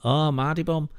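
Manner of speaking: a hint of mock Pontefract accent; imitated northern accent. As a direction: mimic the put-on northern vowels. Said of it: "why are you talking like that".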